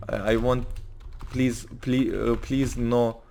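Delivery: halting plea in a put-on Russian accent; slow, stumbling Russian-accented English; fake Russian accent. Anton begging the cop for his friend, fake Russian accent. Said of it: "I'm trying to fake a Russian accent".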